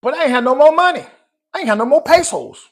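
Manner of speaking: loud, high mock lament; comic outcry. Man recalling he drained his savings, comic loud lament. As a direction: cry out in exaggerated dismay at being broke.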